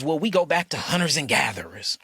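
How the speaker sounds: whispered mock quote of the experts; sneering whispered imitation. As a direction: whisper it like a lie you've heard too often. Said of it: "Every first thing they wanna say is".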